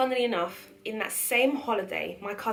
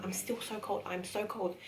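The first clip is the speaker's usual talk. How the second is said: softer, weak cold murmur; shivering complaint; 6 dB quieter than usual. Retold or imitated. Cousin under blankets, softly saying she's cold. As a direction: murmur as if freezing. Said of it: "sitting there saying".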